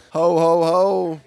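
loud booming Santa laugh; jolly ho ho ho. Pretend. Santa sign-off, holiday guide.

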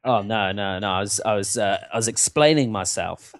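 low, halting New Zealand denial; New Zealand accent. Shown as a demonstration. Band member answers the manager at band meeting, New Zealand accent. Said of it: "a New Zealand accent at all".

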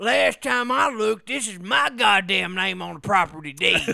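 put-on belligerent drunk. Playing drunk redneck homeowner.

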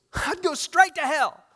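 high, loud jovial laugh-voice; a carefree restaurant owner laughing it off, loud and high. Retold or imitated. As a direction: toss it off laughing like a cheerful owner. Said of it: "in a laughing, jovial voice".

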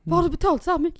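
high, loud disbelieving question; husband reacting to the price; shocked question. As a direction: sound shocked at the bill.

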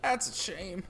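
stereotype farmer impression; lightly voiced country farmer. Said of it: "farmer stereotype impression".

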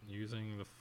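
soft, careful dictation; dictating to the computer. Real, not acted. Host dictating a prompt to the AI, quiet dictation. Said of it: "or here, I'll say it".

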